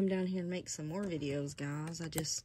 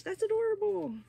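excited squeal; 14 semitones higher, 6 dB louder than usual. Real, not acted. Gushing to viewers over a tiny Irish outfit, high and excited. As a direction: pitch jumps way up and louder on adorable.

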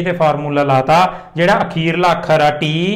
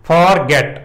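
"for get" split, weight on "get"; stress on get. Shown as a demonstration. Teacher showing the stressed last syllable, stress on "get". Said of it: "get 'ਤੇ ਜ਼ਿਆਦਾ ਜ਼ੋਰ ਪਾ ਰਹੇ ਹਾਂ".

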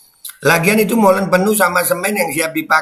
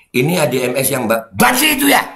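"banci" shouted after a small stumble; stress on banci. Shown as a demonstration. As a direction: read evenly, then burst out on "banci". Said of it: "saya lagi belajar intonasi baca".

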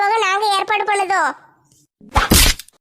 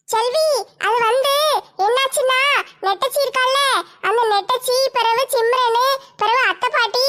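hurried neighbour woman; 2 semitones higher than usual. Acted. Fathima explains the rescue.

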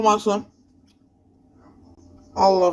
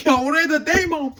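high-pitched exasperated protest; exasperated complaint; 7 semitones higher than usual. Real, not acted. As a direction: whine at the game. Gamer complains after fail.

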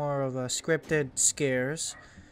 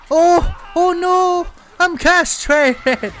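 mock squeal; 13 semitones higher, 10 dB louder, slower than usual. Hit in groin by witch.

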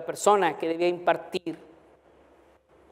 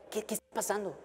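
puzzled; 14 dB quieter, faster than usual. Retold or imitated. Confused students wondering aloud.

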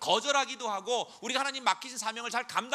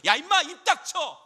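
shouted angry command, much higher and louder; enraged protective father shouting; God silencing Satan; 6 semitones higher, 7 dB louder than usual. Acted. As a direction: bark him into silence. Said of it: "하나님이 먼저 막으시는 거죠".

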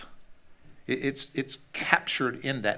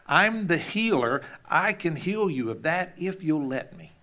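firm, raised voice of the healer; God speaking; 5 semitones higher than usual. Acted. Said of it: "And so he says".

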